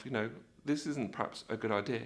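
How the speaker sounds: very soft, low, quick misgiving; understated worry, kept to yourself; thinking to himself. Acted. Nervous rider doubting the idea, thinking to himself. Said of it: "you think to yourself".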